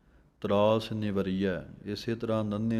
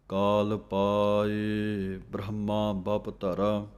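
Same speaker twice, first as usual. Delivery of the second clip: slow recitation; much slower than usual. Acted. Slow verse.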